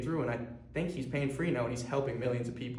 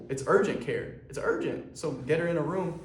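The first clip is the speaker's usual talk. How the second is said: retold impatient insistence, pitched higher; pissed; 4 semitones higher than usual. Sibling presses front desk guy for a room, pissed. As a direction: push the point with mild exasperation. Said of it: "I was kinda getting pissed".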